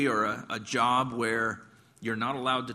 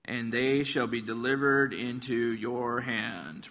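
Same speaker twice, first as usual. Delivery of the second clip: slow, drawn-out mock blessing; 2 semitones lower, slower than usual. Prophet humouring the king about going to war, mildly mocking. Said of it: "You can kinda hear that tone in his voice".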